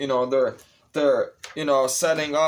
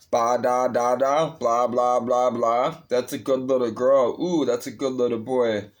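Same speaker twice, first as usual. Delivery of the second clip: mocking baby talk. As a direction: coo down at them like they're toddlers. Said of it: "God will speak to this people in baby talk".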